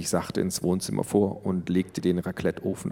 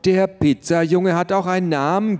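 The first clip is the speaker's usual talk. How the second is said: higher, snippy and biting; venomous retort; 9 semitones higher, 3 dB louder than usual. A narrator's reading. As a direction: spit it back at them. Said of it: "giftete Luisa".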